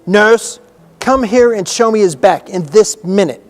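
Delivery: loud, high command; imperious call. A narrator's reading. Girl summons the nurse to the bedside, imperious shout. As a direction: order her over sharply.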